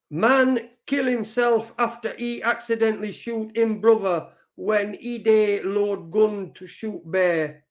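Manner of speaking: reading the headline in a put-on Pidgin, slowing at the end. Shown as a demonstration. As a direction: perform the Pidgin headline for a friend. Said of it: "Wanna hear you say the headline".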